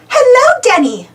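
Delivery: high, loud called-out greeting; Peppa shouting. A narrator's reading. Peppa greets her friend on the mountain, shouting. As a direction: call out high, then drop on the name. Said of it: "shouts Peppa".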